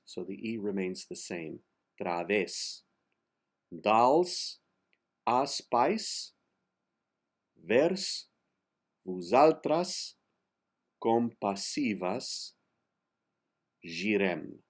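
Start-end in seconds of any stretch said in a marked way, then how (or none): 2.0-2.8 "Través" said "tra-VES", stress on the last syllable, E kept open. Shown as a demonstration. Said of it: "the accent is the, on ves". 3.7-14.6 each word of "Dals aspais vers vosaltras compassivas girem" spoken apart; word by word Catalan. Shown as a demonstration. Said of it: "The G is a very soft G".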